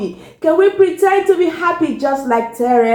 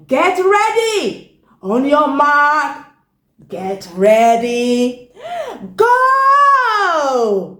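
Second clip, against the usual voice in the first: starter's call; slower than usual. Acted. Swordfish starting the race for the fish, drawn-out call. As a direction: build it up slowly then burst out with go.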